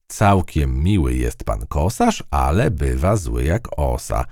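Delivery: slow, measured verse reading; slow nursery-rhyme recital; poem recital. A narrator's reading.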